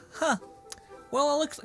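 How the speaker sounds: high-pitched mock of her change of heart; put-on high voice, teasing; mocking imitation. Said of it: "now you're like".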